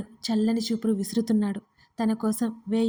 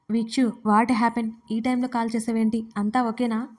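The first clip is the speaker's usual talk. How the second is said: usual speaking voice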